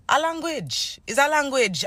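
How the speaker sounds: Is a language, high and emphatic; insistent correction. Real, not acted. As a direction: correct them firmly, stressing language.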